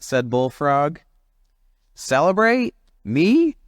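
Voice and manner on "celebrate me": high, louder scoffing disbelief; grumpy chimp scoffing at the idea; incredulous grump. Acted. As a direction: spit the words back in disbelief. Jim scoffing again.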